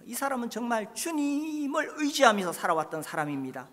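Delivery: ordinary delivery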